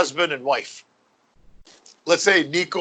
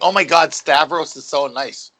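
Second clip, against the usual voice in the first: lightly voiced gushing customer, drawn out slowly; a hint of a gushing tourist; slower than usual. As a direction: coo over the waiter, slowly. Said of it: "they think".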